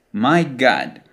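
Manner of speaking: American accent, God as an open gahd. Shown as a demonstration. Teacher isolating the first part, American open O. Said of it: "in American English, that O is not pronounced as a closed sound".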